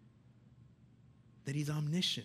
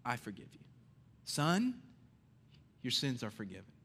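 personal; 5 semitones lower than usual. Retold or imitated. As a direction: say it as a personal word of forgiveness. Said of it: "It's more personal".

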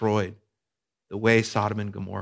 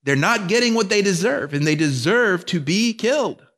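voicing indignant Jonah; 6 semitones higher than usual. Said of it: "He's like".

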